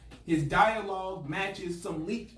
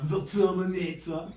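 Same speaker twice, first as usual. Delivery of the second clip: Terminator announcer voice; 3 dB louder than usual. Pretend. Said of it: "That's my term".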